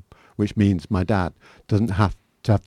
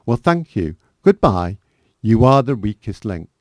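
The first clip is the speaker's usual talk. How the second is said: shouting; 2 semitones higher, 6 dB louder than usual. Retold or imitated. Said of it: "shouting in the distance".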